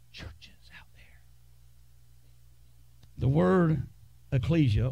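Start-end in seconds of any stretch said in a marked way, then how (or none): 0.1-1.2 eerie hushed whisper; mock mystical whisper. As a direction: whisper it like a spooky secret. Mocking mystical notion of church.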